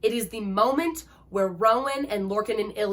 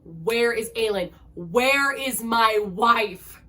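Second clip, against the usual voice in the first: slow, drawn-out furious demand; retold husband's anguished yell; enraged scream; 5 dB louder, much slower than usual. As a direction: stretch every word out in rage.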